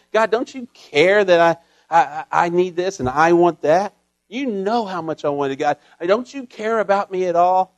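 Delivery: loud, aggrieved griping at God; whiny complaining prayer. Pretend. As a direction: whine it like a wronged child. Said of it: "That's complaining. That's not praying".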